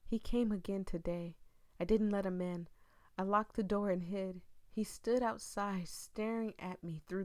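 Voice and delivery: dramatic read-aloud of a creepy tale; eerie storytelling voice; story narration. Acted. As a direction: read it like a ghost story to the viewers.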